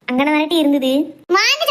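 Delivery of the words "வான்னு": shouting from another room. Acted. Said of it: "இவன் ஏன் அப்படி கத்திட்டு போறா?".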